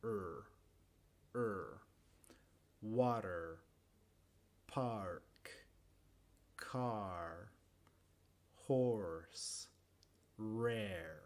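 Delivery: low, stretched Rs in "Water", "Car", "Rare"; exaggerated "Er" held in every word; emphasised R sound. Shown as a demonstration. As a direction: lean long on the American R of each word. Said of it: "enfatizando ese sonido".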